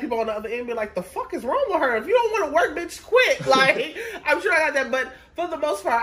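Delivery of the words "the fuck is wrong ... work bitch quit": mock-irritated caller griping; fed-up caller. Customers grumbling about the rude agent on the phone, mock-irritated. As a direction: imitate an annoyed customer, pitch lifting.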